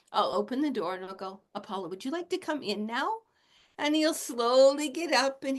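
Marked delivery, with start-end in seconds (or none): 1.5-3.1 calm invitation. Retold or imitated. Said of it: "I'll ground myself down".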